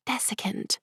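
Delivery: high voiceless whisper; a hushed hint to her partner; mouthed word. A narrator's reading. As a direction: breathe it silently. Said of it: "Lilian mouthed".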